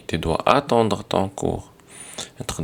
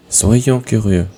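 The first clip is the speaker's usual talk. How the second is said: loud affirmative model; 5 dB louder than usual. Shown as a demonstration. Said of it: "ne soyons pas curieux".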